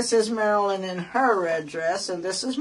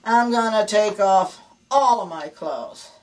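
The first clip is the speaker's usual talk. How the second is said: slow and deliberate, building louder to the threat; wife at her wits' end threatening her husband, hammed-up fury; mock furious ultimatum; 3 dB louder, slower than usual. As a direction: drag out every word like a final warning. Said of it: "Now she's really mad and angry".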